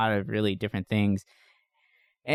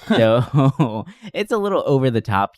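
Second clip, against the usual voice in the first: laughing through the words, a bit louder; 6 dB louder than usual. Real, not acted. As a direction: chuckle while saying it. Laughing about goofy fight scenes.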